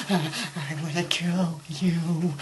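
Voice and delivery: low, slow, soft menace; hushed, mock-unhinged threat; mock death threat. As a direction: threaten slowly under your breath.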